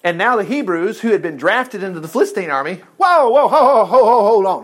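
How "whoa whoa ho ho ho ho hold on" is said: real laughing. Real, not acted. Preacher laughing at his slip.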